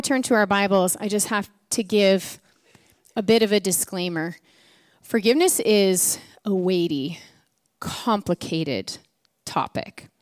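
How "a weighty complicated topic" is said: slow hushed whisper. Real, not acted. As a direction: drop to a whisper for weight. Dramatic pause on serious topic.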